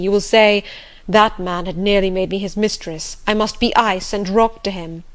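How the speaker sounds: lightly voiced master in reproach; bitter, reproachful master. Master reproaches the governess for making herself a stranger, bitter. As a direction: accuse them with mounting insistence, easing at the end.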